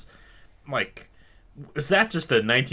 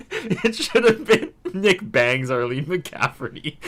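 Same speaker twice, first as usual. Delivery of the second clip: laughing; 4 semitones higher than usual. Real, not acted. Laughing while naming joke title.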